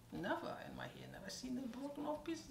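hushed unvoiced whisper about her hair; whispered aside. Telling the stylist about her hair, in a hushed whisper. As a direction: breathe it like a secret.

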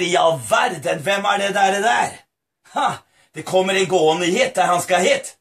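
low, musing father; puzzled father. Acted. Father spotting a shadow in the field, puzzled musing.

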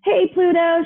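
high-pitched call to get attention; lightly voiced shout of greeting; mild shout. A narrator's reading. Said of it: "shouted Speedy the Space Rock".

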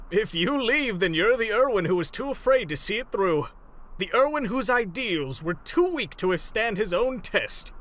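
goading challenge. Acted. Captive goading Irwin to see his test through, challenging. Dares the other to stay.

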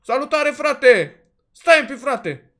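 loud, high shout to a passing car; calling out. Real, not acted. Gamer shouting at the driver to stop, loud call. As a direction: hail him down from afar.

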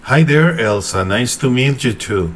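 slow, careful English "Hi there, Elsa, nice to meet you too"; careful English greeting. Shown as a demonstration. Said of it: "el hi y el you, como que lo dije, pero regular".

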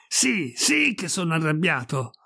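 tense, emphatic angry retort. Acted. Priest snapping back at Pirolo's question, angry. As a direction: confirm it with mounting temper. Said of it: "Siete arrabbiato".

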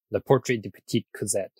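attempted French accent on the title; lightly French pronunciation. Shown as a demonstration. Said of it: "How was the French accent there".

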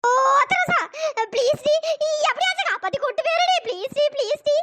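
high, pleading whine; scared begging please. Acted. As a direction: beg desperately, half laughing. Scared woman begs friend.

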